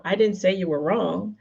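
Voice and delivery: emphatic demonstration read; emphasised word. Shown as a demonstration. Coach showing how emphasis shifts meaning, stressed reading. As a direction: stress placed on the underlined word. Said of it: "my emphasis on those words".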